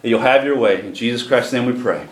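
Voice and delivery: earnest, flowing spoken prayer; public prayer. Real, not acted. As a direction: pray aloud on behalf of the congregation. Leads the congregation in prayer.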